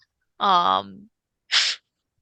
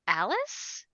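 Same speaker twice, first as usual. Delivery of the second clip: scared calling out; 5 semitones higher than usual. Acted. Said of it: "She's like".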